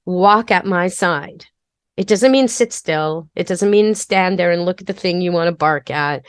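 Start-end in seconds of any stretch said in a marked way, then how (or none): 0.0-1.5 slow calm command. Shown as a demonstration. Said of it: "a command that means".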